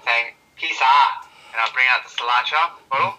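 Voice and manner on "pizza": put-on Chinese accent. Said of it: "I'm saying in a Chinese accent".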